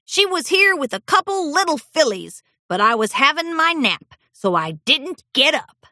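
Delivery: put-on old stallion voice. A narrator's reading. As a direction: muse like a forgetful old man.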